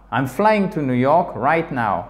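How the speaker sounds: slow demo, pitch moving to highlight "right now"; fall-rise emphatic intonation. Shown as a demonstration. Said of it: "Montante pour insister sur un élément". (« right now » mis en relief par l'intonation, lentement)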